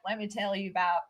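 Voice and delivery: put-on casual Alabama Southern accent, only hinted; a touch of Southern accent, imitating a seminar guest. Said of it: "sorry, my Southern accent".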